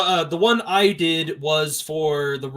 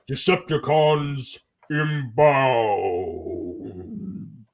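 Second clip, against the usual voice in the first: robot voice; 2 semitones lower, much slower than usual. Retold or imitated. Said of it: "he went like".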